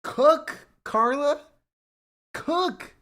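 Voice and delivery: high, loud hype call; excited hype. Real, not acted. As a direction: cheer her on like a big play. Hyped reaction to Carla's take.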